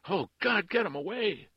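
very high, loud, desperate wail; panicked plea. A narrator's reading. Woman behind the slammed door, crying in panic. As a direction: cry out in terror for rescue.

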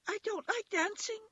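very high little rabbit voice; toy rabbit refusing. A narrator's reading. Toy rabbit refuses to dance with the wild rabbit, very high. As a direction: decline in a tiny high pipe. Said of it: "he said".

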